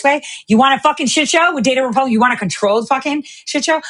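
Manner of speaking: heated rant, pitch up and fast; angry yelling. Real, not acted. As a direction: yell it at the viewers. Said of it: "I'm not yelling at you".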